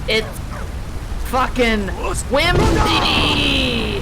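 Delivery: yelled over the wind; exasperated yell, rising to a shout. Real, not acted.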